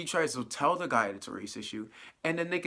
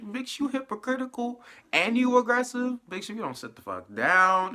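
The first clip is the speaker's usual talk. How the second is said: pitched way up, loud and scolding; loud sassy clapback; 9 semitones higher, 5 dB louder than usual. Retold or imitated. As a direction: tell off a hypocrite at full volume. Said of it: "I'm like".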